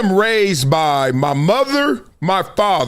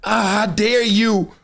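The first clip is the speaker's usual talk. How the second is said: mock indignant woman; slower than usual. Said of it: "Ain't nobody trying to hear".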